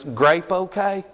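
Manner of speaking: slow Southeast Georgia offer of a drink; Southeast Georgia accent. Retold or imitated. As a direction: imitate a Southeast Georgia pastor, drawn out. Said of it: "down Southeast Georgia".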